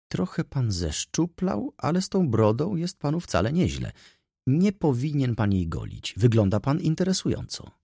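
lekko wyższy, kokieteryjny głos damy; Wąsowska. Acted. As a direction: zalotna dama komplementuje. Wąsowska voiced by narrator. (lekko zagrany głos kobiecy)

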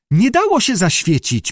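high defensive squeak. A narrator's reading. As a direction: squeak out the excuse. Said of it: "pisnęła Judy".

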